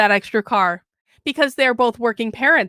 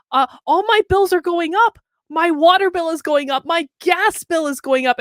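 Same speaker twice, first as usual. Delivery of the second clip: complaining wife; 4 semitones higher than usual. Retold or imitated. Wife complaining about bills, quoted.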